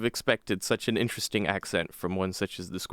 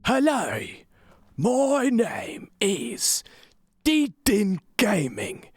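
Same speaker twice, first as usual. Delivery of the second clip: high, slow, hammed-up Cockney; Cockney accent; 10 semitones higher, slower than usual. Gamer introducing the channel, slow high exaggerated Cockney. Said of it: "Cockney style".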